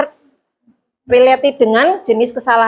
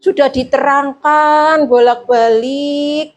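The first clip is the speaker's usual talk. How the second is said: soft guilt-trip; 3 semitones higher than usual. Shown as a demonstration. Teacher gently reproaching a pupil who keeps failing, soft and sighing. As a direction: lay the guilt on softly without getting angry. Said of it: "ngomongnya halus, kayak nggak marah-marah".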